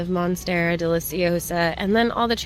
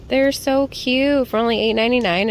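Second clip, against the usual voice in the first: high, bright, louder sales cheer; chirpy haul video; 6 semitones higher, 3 dB louder, faster than usual. Real, not acted. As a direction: gush about the bargain. Plant haul price pitch.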